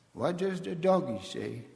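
put-on high, bright question to a small child; talking to a toddler. Shown as a demonstration. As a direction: ask it like playing with a toddler. Teaching toddlers animal sounds.

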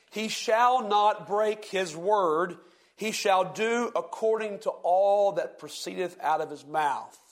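slow, solemn King James reading; scripture reading. Acted. Preacher reading scripture to the class, slow and solemn. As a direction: read the old verse slowly, with weight. Reads Numbers aloud.

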